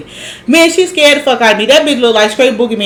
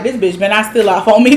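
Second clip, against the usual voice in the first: understated, quick worried thought; mildly mock someone bracing for a hit; tense inner thought; faster than usual. Host voicing Summer walking past Ivory, mildly tense. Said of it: "you can tell that Summer was tensed up".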